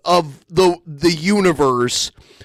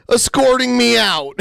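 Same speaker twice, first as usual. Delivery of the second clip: mocking repeat through a laugh, pitched up; laughing echo; 10 semitones higher than usual. Real, not acted. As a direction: laugh out the quoted phrase. Mocking echo of her phrase.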